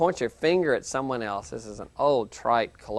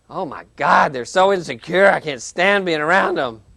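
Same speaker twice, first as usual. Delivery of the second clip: louder, higher, fed-up griping; exasperated complaint; 4 semitones higher, 7 dB louder than usual. Retold or imitated. Teacher voicing a student fed up with someone, exasperated. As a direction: vent like someone who can't stand them.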